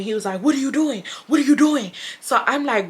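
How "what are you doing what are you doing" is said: high-pitched mock indignation; retold angry demand without real shouting; angry brother. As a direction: imitate an annoyed brother, voice pitched up. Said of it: "Like, he was angry".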